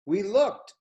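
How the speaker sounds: sudden surprise at the cat; surprised gasp-word. A narrator's reading. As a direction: react with a start.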